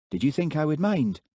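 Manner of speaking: a gently voiced Highland girl; soft lilting Highland woman's voice. A narrator's reading. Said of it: "Her soft voice had a Highland lilt".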